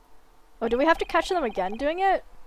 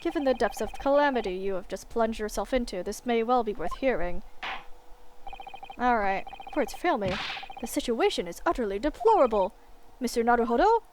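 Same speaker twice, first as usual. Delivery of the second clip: stern judge; 3 semitones lower than usual. Acted. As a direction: weigh each word like a weary judge.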